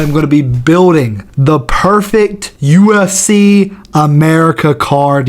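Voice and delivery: slow, drawn-out announcer read of the card name; grand announcement. Pretend. Host unveils his dream card name, slowly, like an announcer. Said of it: "Do you like that?".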